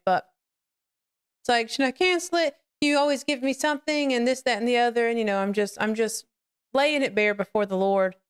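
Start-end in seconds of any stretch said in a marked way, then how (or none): 1.7-5.1 high mock-whiny plea easing back down; imitating a worked-up complaint to God; retold pleading. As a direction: re-enact a fretful prayer, pitch starting high. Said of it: "while I was ugly crying".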